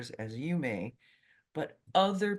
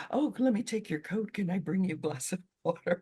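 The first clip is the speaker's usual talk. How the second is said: fawning shopkeeper; 5 semitones higher, faster than usual. Retold or imitated. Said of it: "storekeepers would fall all over themselves".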